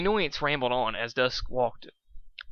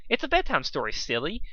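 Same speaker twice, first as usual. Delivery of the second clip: giggling; 4 semitones higher than usual. Acted. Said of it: "Pinkie giggled".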